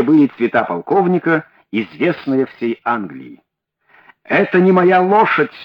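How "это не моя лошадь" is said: a fairly full angry shout. Acted. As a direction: protest that this horse isn't his. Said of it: "закричал полковник Росс".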